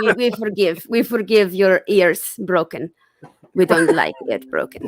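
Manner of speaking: forgive them grandly in a put-on Russian accent; mock Russian accent. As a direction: Svetlana forgiving the listener's broken ears. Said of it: "It's not my voice".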